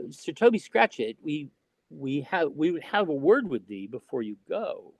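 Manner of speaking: retold queen, mildly stern summons; lightly imperious, archaic stage command. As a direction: imitate a stern queen addressing a subject. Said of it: "she'd said it kind of sternly".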